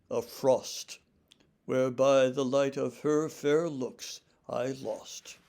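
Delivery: measured, rhythmic sonnet recital; poem reading. Acted. Lecturer reading Surrey's sonnet to listeners, measured recital. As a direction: declaim each line with its own weight. Reads second sonnet aloud.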